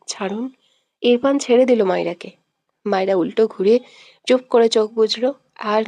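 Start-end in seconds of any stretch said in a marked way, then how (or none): 0.1-0.5 softer, almost under the breath. A narrator's reading. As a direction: ask it gently and quietly. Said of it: "মৃদু স্বরে বলে". (মৃদু স্বরে বলা)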